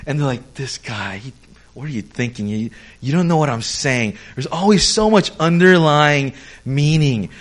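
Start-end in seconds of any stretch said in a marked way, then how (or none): 0.5-4.2 exasperated mutter. Retold or imitated. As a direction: shake your head at the clueless guy. Korean friends' reaction acted.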